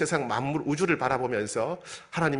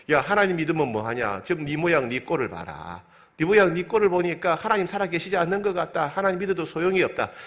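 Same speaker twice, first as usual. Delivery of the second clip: mocking neighbour, rising higher and louder by the end; scornful taunt; 5 semitones higher, 3 dB louder than usual. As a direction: sneer at the believer, building up. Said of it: "주변 사람들이". (점점 높고 크게 비웃는 이웃 말투)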